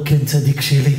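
low, unhurried, kindly reply; patient answer. Acted. Patient Hillel answers the caller. (מענה סבלני בקול נמוך)

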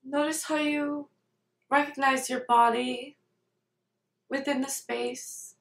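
calm meditation guide, unhurried, with long pauses between phrases; guided meditation. Real, not acted. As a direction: lead them gently through it, leaving space after each phrase.

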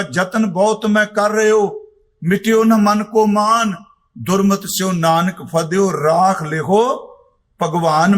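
slow, measured recital of the verse; slow devotional recitation; scripture recitation. Acted. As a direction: intone each line with reverence.

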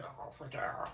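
soft awed whisper of oh my God; breathless whisper. Retold or imitated. Fan imitating his own reaction to the video, awed whisper. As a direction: whisper it, overwhelmed. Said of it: "twenty seconds of me going".

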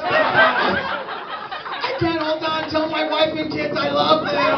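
slow, high dying last words; wounded soldier gasping. Acted. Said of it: "They're like".

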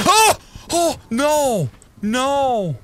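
high frightened cry of oh no; sudden scared yelp, voice shooting up; startled gasp. Real, not acted. Startled by a face in game.

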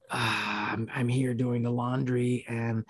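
understated dread over something trivial; imitated fretting dad. Dad explaining the laundry basket, mildly rattled imitation. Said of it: "he's just freaking out".

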